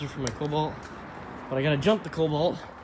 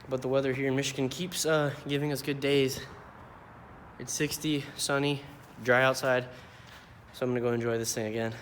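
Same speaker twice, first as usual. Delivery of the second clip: breathing hard while talking; heavy breathing; 7 dB quieter than usual. Real, not acted. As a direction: talk between heavy breaths. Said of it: "Sorry, I'm breathing heavy".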